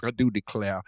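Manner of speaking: pompous Southern gentleman accent, lightly played. Friend hams up a Southern gentleman for his buddy, Southern accent lightly played. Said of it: "I must use this voice".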